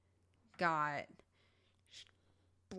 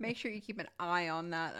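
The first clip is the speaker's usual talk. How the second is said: stifled giggles. Real, not acted. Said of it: "I'm trying not to laugh too loud".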